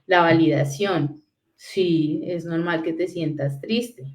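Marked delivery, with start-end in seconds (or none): 1.6-4.0 gently slowed comfort, a little softer; soft, slow validating parent. Shown as a demonstration. Parent comforting a sad toddler, soft and slow. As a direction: reassure the child that sadness is okay.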